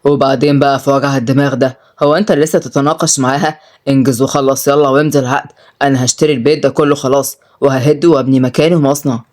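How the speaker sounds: low, impatient crime boss; forceful. Acted. Mafia boss demands contract be signed, forceful. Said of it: "رد سالم بقوة".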